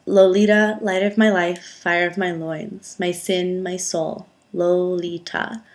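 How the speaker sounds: slow, savoured reading of a novel's opening; lingering on each Lolita as if tasting it; literary reading. Acted. Vlogger reads her chosen Lolita passage aloud, lightly dramatic.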